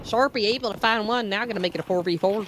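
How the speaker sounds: normal talking voice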